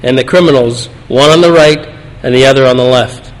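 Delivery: measured, solemn reading of the Gospel; scripture reading. Acted. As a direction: read the passage aloud to the congregation with reverence. Reads the Gospel passage aloud.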